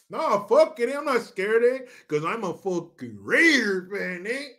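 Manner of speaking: bragging Chicano fan; Chicano homeboy accent. Acted. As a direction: swagger through it in a sing-song Chicano accent. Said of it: "I can do that accent so well".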